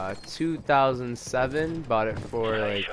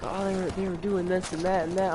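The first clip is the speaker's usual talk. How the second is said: higher-pitched imitation of a mom; mock tattling mom; 7 semitones higher than usual. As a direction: put on a high voice, mimicking her telling on them. Voices girlfriend's mom telling on them.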